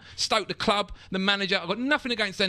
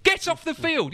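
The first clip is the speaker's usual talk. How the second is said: furious order; 9 semitones higher, slower than usual. Retold or imitated. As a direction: bark him off the pitch. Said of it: "angry ordering off".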